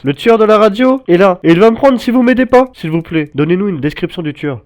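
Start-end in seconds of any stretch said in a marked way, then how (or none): 0.0-2.6 high frightened urgent plea; begging in panic; panicked pleading. Real, not acted. Frightened emergency call.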